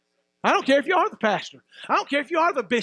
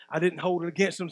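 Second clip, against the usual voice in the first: quiet restatement; 8 semitones lower, 5 dB quieter than usual. Acted. Preacher repeating Jesus' forgiveness to the church, hushed. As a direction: drop much lower and softer, almost hushed.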